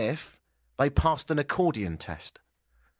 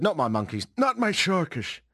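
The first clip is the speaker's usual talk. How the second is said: Donald Trump; 4 semitones higher than usual. Acted. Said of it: "Trump said".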